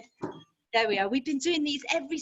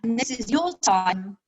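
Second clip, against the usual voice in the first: measured meditation voice with long pauses; guided meditation. Acted. Yoga nidra teacher easing resters out of thinking, meditation voice. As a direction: guide them gently into rest, phrase by phrase.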